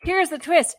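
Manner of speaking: high, laughing dramatic reveal. Acted. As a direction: announce the twist while laughing. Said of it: "retry of reveal laughing".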